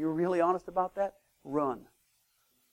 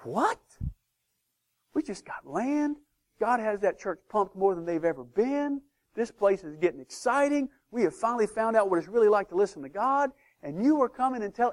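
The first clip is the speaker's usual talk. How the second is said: incredulous protest; 5 semitones higher than usual. Retold or imitated. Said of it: "And I'm like".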